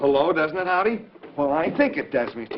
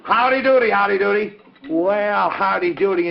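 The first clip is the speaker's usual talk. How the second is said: lightly raised puppet voice; 3 semitones higher than usual. Acted. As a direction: chirp back to the host. Puppet voice answers host.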